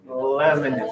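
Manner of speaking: slow, drawn-out "T, lemon"; slow demo. Shown as a demonstration. Teacher showing the class how T and L feel, slowly. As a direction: stretch out "T" and "lemon" so the tongue position is heard. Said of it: "How's that different than a T".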